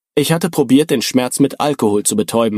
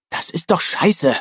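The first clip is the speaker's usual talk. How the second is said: angry; 2 semitones higher, slower than usual. A narrator's reading. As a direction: spit it out in anger. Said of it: "sagte Julian wütend".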